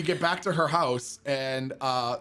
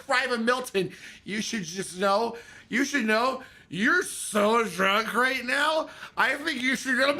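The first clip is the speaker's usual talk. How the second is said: tipsy corporal voice; 6 semitones higher, slower than usual. Retold or imitated. Drunk corporal urging him home.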